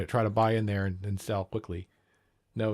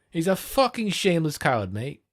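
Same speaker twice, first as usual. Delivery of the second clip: overemphasised British; 5 semitones higher than usual. Shown as a demonstration. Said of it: "Yeah, that sounds better".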